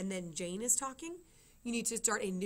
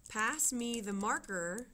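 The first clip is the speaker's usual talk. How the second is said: slow, deliberate dictation of the quote; slow classroom dictation pace; slower than usual. Shown as a demonstration. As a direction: spell out each word slowly for writing it down. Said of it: "dictating sentence with punctuation named".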